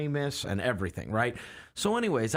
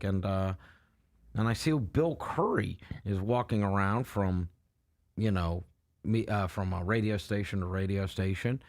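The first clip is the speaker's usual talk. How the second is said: deadpan radio host; 2 semitones lower than usual. Retold or imitated. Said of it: "just says it totally matter of fact".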